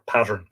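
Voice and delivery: pattern as "PAT-ern", R after the vowel; pattern, like a dress pattern; local word form. Shown as a demonstration. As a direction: say pattern in place of patron. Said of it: "they were always called patterns".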